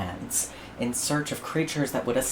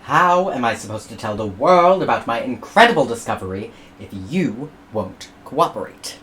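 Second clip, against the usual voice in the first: frustrated explorer; 5 dB louder than usual. Acted. George frustrated.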